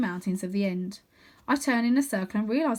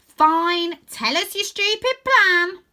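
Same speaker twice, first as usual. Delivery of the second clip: higher, louder, slow sneering voice; scornful girl chief; 10 semitones higher, 9 dB louder, much slower than usual. A narrator's reading. Stella scoffs at Rose's plan, slow and sneering. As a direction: drag it out with contempt.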